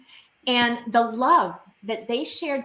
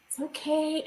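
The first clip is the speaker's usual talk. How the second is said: cooing; 4 semitones higher, 4 dB quieter than usual. Retold or imitated. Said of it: "cooing to me like a baby".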